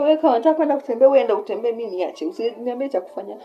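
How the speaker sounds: retold snapping at a friend; irritated snap. Snapping at friend during labor.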